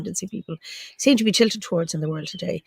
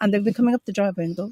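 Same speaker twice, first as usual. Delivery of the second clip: usual speaking voice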